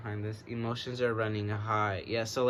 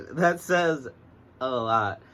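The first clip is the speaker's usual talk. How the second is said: emphatic loud repeat; 8 dB louder, slower than usual. Shown as a demonstration. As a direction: say it again with big emphasis, much louder.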